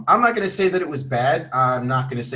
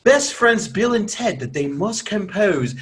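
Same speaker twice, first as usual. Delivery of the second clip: reading in a put-on English accent; hammed-up British read; mock British accent; 5 semitones higher, 3 dB louder than usual. Shown as a demonstration. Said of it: "wait, wait, wait. I'm sorry".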